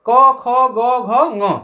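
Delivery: क, ख, ग, घ, ङ each said clearly from the throat; throat letters recited for the class; reciting letters. Shown as a demonstration. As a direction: sound out क, ख, ग, घ, ङ from the back of the throat. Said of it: "कंठ से होते हैं".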